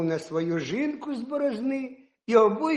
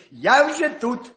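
high, slow, louder call; 6 semitones higher, 5 dB louder, slower than usual. Acted. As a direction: sing out smugly. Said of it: "їжак крикнув".

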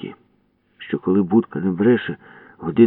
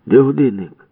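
high, loud threatening question; menacing demand; 7 semitones higher, 7 dB louder than usual. Acted. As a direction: jaw thrust, threaten. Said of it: "грізно сказав Ява". (грізно, з висунутою щелепою)

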